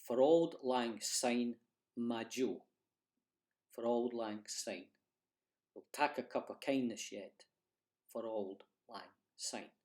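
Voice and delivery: slow Scots recital of the chorus; spoken Scots chorus. Shown as a demonstration. Teacher reciting the chorus for learners. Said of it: "The chorus is".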